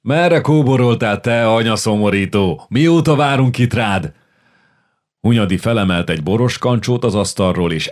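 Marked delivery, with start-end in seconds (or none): 0.0-4.1 loud, higher, rowdy greeting; drinking comrade hails the latecomer, rowdy and loud; hearty shout. Acted. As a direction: call out across the tavern.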